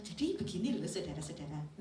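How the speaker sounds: engaging presentation intonation. Shown as a demonstration. Presenter addressing an audience, engaging intonation. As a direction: open the speech with an inviting lilt. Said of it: "Beda dengan".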